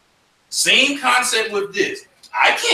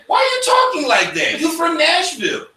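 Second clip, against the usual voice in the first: mocking kid; 11 semitones higher than usual. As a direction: call it out like a kid ribbing a stranger. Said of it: "Nashville come back and say".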